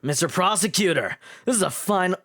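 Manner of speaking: trial run of the voice without British; tentative character voice, accent dropped; character voice, British removed. Shown as a demonstration. Streamer testing the prosecutor line, British taken out. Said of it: "just take out the British".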